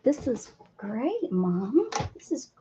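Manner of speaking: a hint of a slow, soft cat voice; voicing the cat. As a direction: lightly speak for the cat, slowly and softly. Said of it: "She's like".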